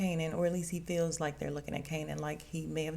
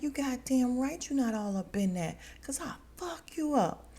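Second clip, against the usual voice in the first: higher, hammed-up menace ending in a whisper; mock threat; 7 semitones higher than usual. Recapping the show, imitating Malcolm threatening his sister's man. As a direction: threaten him half-joking. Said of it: "He's like".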